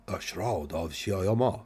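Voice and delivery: slow, drawn-out put-on foreign accent for the Shroud of Shiyama; vague mock accent. Shown as a demonstration. Reading out a magic item's name to co-hosts, in a mock foreign accent. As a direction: intone Shiyama in a half-hearted unplaceable accent. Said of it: "I don't know what accent that was supposed to be".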